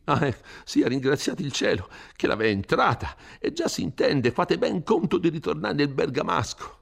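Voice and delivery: a frightened priest scolding a rash youth; Don Abbondio, fretful. Acted.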